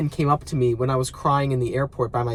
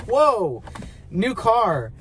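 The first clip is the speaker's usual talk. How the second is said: higher-pitched impressed exclamation; mock awe; 6 semitones higher, much slower than usual. Reacting to a friend's new car, acted-out awe. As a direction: act wowed by something shiny and new.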